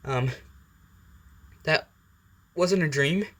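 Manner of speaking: falter, then lift into a disbelieving question; Izuku. Acted. Boy sits up after falling from bed, hesitant disbelief. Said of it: "As Izuku sits up and goes".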